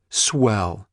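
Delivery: a short, biting "Swell"; sarcastic flare. Acted. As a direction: snap it with scorn. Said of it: "she flared".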